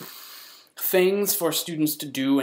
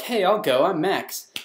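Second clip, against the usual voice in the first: higher, bouncy quoted voice; mock-keen, raised pitch; eager volunteering; 5 semitones higher, 4 dB louder than usual. Retold own eager volunteering.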